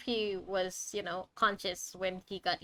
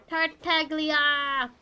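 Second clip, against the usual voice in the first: called out; 5 semitones higher, 6 dB louder, much slower than usual. Real, not acted. Calling out character name.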